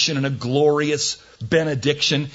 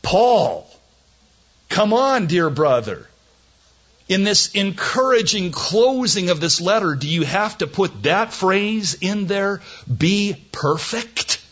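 mock pleading protest; 6 semitones higher than usual.

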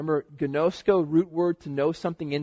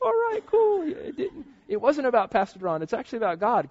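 excited realization; 9 semitones higher, 3 dB louder than usual. Retold or imitated. Inner realization.

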